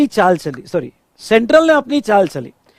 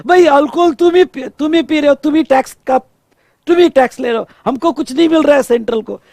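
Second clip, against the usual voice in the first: higher-pitched, animated grievance; mock complaint; 4 semitones higher than usual. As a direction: lightly act out an aggrieved protest. Acting out Central's complaint to states. (हल्की नाटकीय शिकायत)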